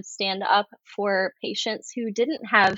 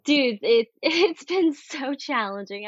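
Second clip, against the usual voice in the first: laughing through the words; nervous laugh; 4 semitones higher than usual. Real, not acted. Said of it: "that's like a nervous laugh".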